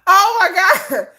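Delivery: slow laughing exclaim. Real, not acted. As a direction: drag it out, laughing. Cracking up at her story.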